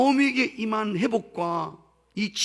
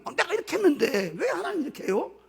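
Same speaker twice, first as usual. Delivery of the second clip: higher, whiny protest to God; a hammed-up grumble, pitched up; mock indignant complaint; 8 semitones higher than usual. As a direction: play a believer griping that God owes him. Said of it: "엉까는 이야기가 막 나오는 거예요".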